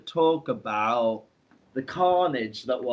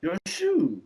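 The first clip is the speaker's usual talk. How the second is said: higher, halting mock-Italian; caveman-like Italian impression; bad Italian accent; 7 semitones higher than usual. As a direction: put on a poor Italian accent. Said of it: "he's Italian".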